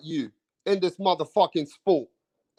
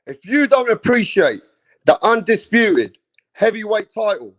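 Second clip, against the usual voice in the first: louder, fired-up rant; angry outburst; 6 dB louder than usual. Real, not acted. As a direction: shout it straight at the haters. Ranting at boxing haters.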